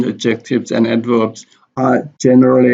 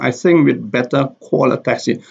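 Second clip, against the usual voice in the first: "think", "better", "call", "taxi" stressed. Shown as a demonstration. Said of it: "The stress is on think".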